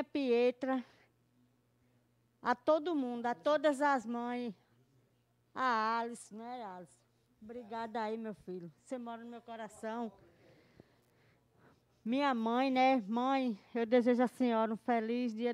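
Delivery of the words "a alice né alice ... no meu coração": soft, moved thanks; much softer, holding back tears; emotional. Real, not acted. Mother thanking her son, softly moved. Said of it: "eu tô emocionada".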